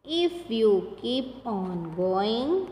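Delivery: very slow poem reading, each word drawn out; reading a poem aloud. Shown as a demonstration. Teacher reads the poem Don't Give Up to pupils, very slow. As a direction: recite it slowly so children can follow. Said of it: "मैं आपको यहाँ पे एक बार read करके बता देती हूँ".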